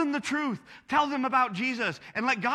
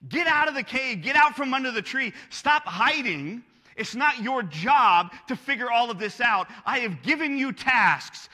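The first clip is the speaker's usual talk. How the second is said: stern command; 3 semitones higher, 4 dB louder than usual. Retold or imitated. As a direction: rouse him like a commander shaking a deserter awake. God commanding Elijah to get up.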